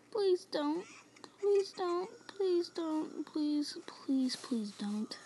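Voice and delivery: trembling whisper. Real, not acted. Pleading with monster.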